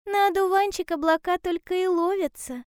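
high-pitched storybook hedgehog. A narrator's reading. Hedgehog explaining cloud fishing to bear cub, high hedgehog voice.

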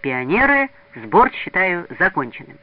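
put-on proud boy making an official announcement; solemn announcement. A narrator's reading. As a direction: formally close the meeting. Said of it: "торжественно объявил".

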